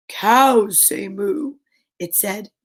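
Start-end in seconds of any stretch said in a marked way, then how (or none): 0.1-1.5 slow lowing cow. Acted. Cow character speaks.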